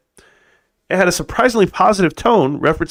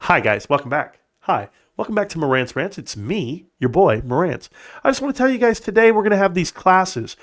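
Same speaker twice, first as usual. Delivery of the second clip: Meet Kevin. Acted. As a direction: parody a hard-selling finance influencer. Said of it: "Meet Morantz instead of Meet Kevin".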